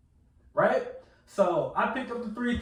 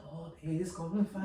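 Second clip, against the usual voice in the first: hushed, low Southern-accent imitation; softly imitated Southern reassurance; 5 semitones lower, 11 dB quieter, faster than usual. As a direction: soothe quietly in a mock old Southern accent. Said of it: "Why you talking like that".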